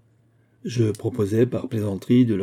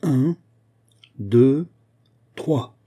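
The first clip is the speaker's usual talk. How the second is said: raised, measured count with gaps; witness counting off; 4 semitones higher, 5 dB louder, much slower than usual. A narrator's reading. Witness counts for the two duellists, calling out. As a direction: count out loud like a duel official. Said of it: "fit le témoin en frappant dans ses mains".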